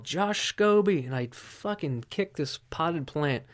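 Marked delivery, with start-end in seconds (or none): 0.0-1.0 drawn-out yell, higher and louder; yelled name. Retold or imitated. Drunk guy yelling a kicker's name at night, slow loud yell. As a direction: shout the kicker's name across the street. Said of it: "I yelled".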